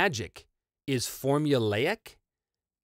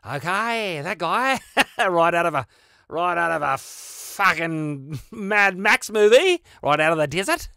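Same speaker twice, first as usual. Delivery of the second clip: excited; 7 semitones higher, 8 dB louder, slower than usual. Real, not acted. Recalling his crazy Aussie druid.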